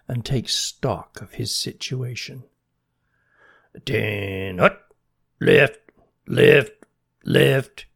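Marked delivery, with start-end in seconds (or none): 3.8-7.9 loud calls up the tree; shouting directions. Acted. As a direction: call it out sharply from below. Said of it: "shouted a voice below Bernie".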